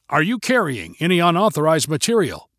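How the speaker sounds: lightly played stern interrogation; stern stormtrooper. Stormtrooper questioning two friends, mildly stern. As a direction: question them like a costumed guard in character. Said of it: "to sound stern and stay in character".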